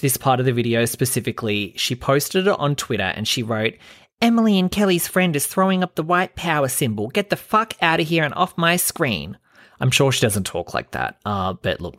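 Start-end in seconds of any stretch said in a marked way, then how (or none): 4.2-9.4 higher-pitched put-on voice reading a tweet; mocking impression of tweeter. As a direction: read her tweet as a mocking, high-pitched caricature. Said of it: "that's my impression of her".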